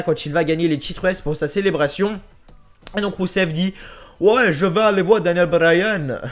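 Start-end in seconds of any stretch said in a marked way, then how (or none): 4.2-6.2 put-on slow, cringey foreign accent for Rusev's line; awkward foreign accent. Quoting Rusev's reply in an awkward foreign accent. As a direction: put on a clumsy foreign accent, a bit slower. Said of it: "mon accent malaisant".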